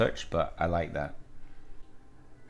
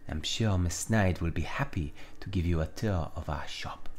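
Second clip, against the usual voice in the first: hushed put-on French accent; Villanelle; 3 semitones lower, 4 dB quieter than usual. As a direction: offer the tour in a French accent. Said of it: "gonna give Villanelle a French accent".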